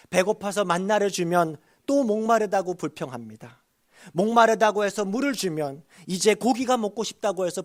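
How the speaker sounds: high, forceful sermon delivery; emphatic preaching. Real, not acted. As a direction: drive each repeated clause home to the congregation.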